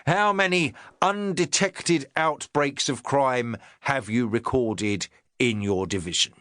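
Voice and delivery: a touch of a self-important inspector; the inspector talking down to his sergeant, lightly pompous. Acted.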